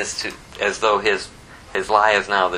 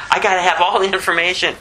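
much higher, fast, nosy know-it-all; eager firstborn type; 8 semitones higher, 3 dB louder, faster than usual. Retold or imitated. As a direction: play the eager kid who must know everything. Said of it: "firstborn kind of guy".

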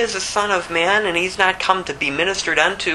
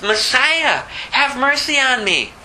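ordinary talk, nothing marked

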